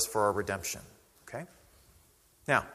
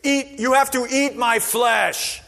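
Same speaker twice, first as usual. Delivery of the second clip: higher, slowed disbelieving echo; mock incredulous repeat; 10 semitones higher, 7 dB louder, slower than usual. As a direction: repeat it like you can't believe it. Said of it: "Who wouldn't be?".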